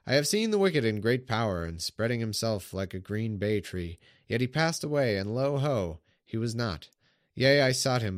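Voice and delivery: measured solemn Bible reading; scripture reading. Acted. Streamer reading the psalm aloud to viewers, solemn. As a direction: read the psalm like a sermon text.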